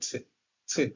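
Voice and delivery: ছে, ছে said with tongue tip flat, not curled; ছে ছে, clipped tongue-tip sound; isolated T sound demo. Shown as a demonstration. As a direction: show the English T as ছে. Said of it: "এরকম উচ্চারিত হবে".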